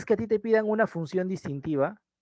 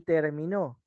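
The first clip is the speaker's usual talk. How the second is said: "terminó" said slowly as ter-mi-NÓ; stress on last syllable; 2 semitones lower, 3 dB quieter, slower than usual. Shown as a demonstration. Teacher contrasting three words for students, "terminó" stressed on NÓ. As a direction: land the stress of "terminó" on the final NÓ. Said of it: "su desplazamiento distingue el significado".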